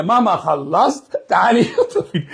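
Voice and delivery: put-on child voice. Child calling mom.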